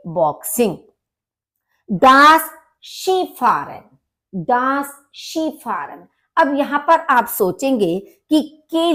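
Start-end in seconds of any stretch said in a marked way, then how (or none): 1.9-6.1 शीफारन with "shee" for s-k-i; slow, careful शीफारन; German pronunciation. Shown as a demonstration. Teacher stresses tricky German word skiing. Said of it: "pronunciation है वो different है अपनी".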